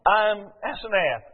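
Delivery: a hint of a shy bride introducing herself; mock bride greeting her new husband; Asenath's greeting. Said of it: "she looks at him and she says".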